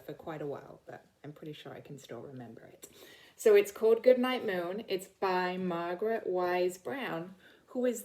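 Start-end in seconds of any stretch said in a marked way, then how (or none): 3.4-4.8 hushed storybook whisper. Acted. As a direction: whisper the title like a secret. Whispered title before reading.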